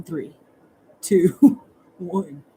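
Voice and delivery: quick countdown broken by a laugh; teasing countdown. Real, not acted. Reader counting down until lurkers leave. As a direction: count them out playfully. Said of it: "Usually when I start calling people creepers".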